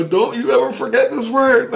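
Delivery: high, loud mock-solemn instruction; egging a kid on. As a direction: urge the child with big emphasis.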